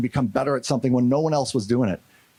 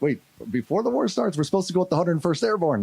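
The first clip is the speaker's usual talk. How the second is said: higher-pitched, mildly incredulous objection; retold protest; 5 semitones higher than usual. Soldier to sergeant about crossing early, taken-aback protest. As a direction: question the order, taken aback. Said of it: "I'm like".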